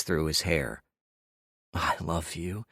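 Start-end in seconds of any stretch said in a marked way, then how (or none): 1.8-2.7 tender. Acted. Tender confession after sex.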